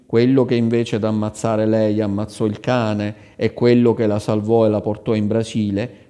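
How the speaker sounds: plain reading voice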